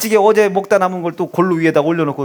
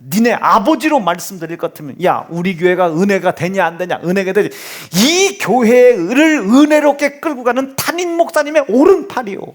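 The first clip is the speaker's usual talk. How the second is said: imitating the wife. Mother bragging to her son about his father, mock proud. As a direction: build up to 오른팔이요 with mock pride.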